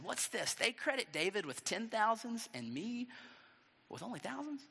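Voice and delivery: contained, acted indignation; angry king. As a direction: fume quietly at the slight. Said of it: "made Saul very angry".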